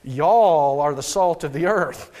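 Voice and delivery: slow Southern Arkansas accent on "Y'all"; light Southern Arkansas accent; Arkansas drawl. Shown as a demonstration. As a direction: lean into an Arkansas "Y'all" slowly. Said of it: "If I was back in Arkansas".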